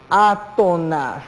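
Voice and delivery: "átonas" drawn out slowly, syllable by syllable; slow and syllabified. Shown as a demonstration. Teacher introduces a new term to students, slowly syllabified. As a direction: stretch each syllable of "átonas".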